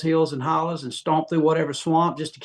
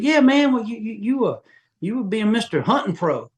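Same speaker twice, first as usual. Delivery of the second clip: teasing buddies; 7 semitones higher than usual. Retold or imitated. Hometown buddies mocking him for sounding citified, high teasing voice. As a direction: rib him like an old friend from back home.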